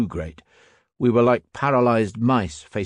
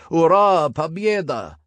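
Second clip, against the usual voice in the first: high, loud charging roar; Russian soldiers roaring as they charge; roared war cry; 8 semitones higher, 4 dB louder, slower than usual. A narrator's reading. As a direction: bellow it like a charging army. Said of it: "roared closer and closer".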